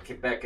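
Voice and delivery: Quebec said the French way; French pronunciation. Shown as a demonstration. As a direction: give Quebec its original French sound. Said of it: "is how it's said in the original French".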